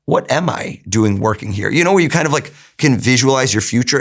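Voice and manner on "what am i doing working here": slow, musing inner voice; inner question. Retold or imitated. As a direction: ask it to yourself, slowly. Inner voice asking the same.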